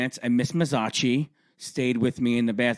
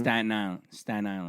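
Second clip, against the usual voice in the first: mock Staten Island pronunciation, syllables swallowed; fake Staten Island accent; 3 semitones lower, 5 dB quieter than usual. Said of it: "she speaks with a Staten Island accent".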